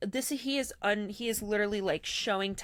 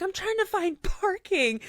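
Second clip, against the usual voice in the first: laughing through the quote; 10 semitones higher, 5 dB louder than usual. Retold or imitated. Quoting him through laughter.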